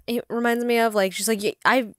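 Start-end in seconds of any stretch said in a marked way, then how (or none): 1.4-1.9 high, eager talking-dog voice; Doug from Up. Retold or imitated. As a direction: gush like an overexcited dog. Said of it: "he talks a lot like Doug from Up".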